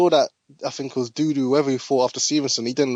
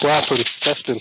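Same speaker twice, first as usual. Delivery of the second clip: tinny phone line; like on a walkie-talkie; on speakerphone. Real, not acted. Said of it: "you sound like you're on a speakerphone".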